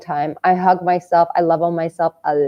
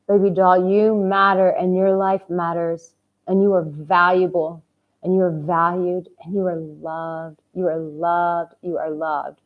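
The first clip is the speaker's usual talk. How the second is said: tender; 2 semitones lower than usual. Real, not acted. Soft affirmations fading to near hush.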